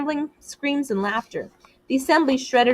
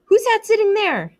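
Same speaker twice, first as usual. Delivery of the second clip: squeaky; 13 semitones higher, 5 dB louder than usual. A narrator's reading. Piggy startled in the dark, voice running up a squeak. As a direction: voice jumps high. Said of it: "His voice ran up a squeak".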